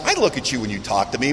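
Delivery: low, quiet grumble to himself; private retort. Retold or imitated. Unspoken retort to his wife.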